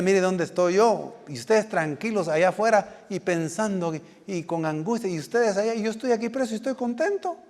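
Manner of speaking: rising pitch, mock-incredulous contented prisoner; voicing the apostle Paul. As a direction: lightly play a prisoner chiding those outside. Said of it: "estoy interpretando lo que el, el, el apóstol está diciendo".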